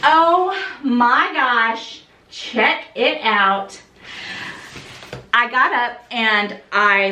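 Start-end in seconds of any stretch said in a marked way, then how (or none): 0.0-3.8 slow, drawn-out awe; awed admiration. Real, not acted. Vlogger in awe showing viewers the packaging. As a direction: savor each word in wonder.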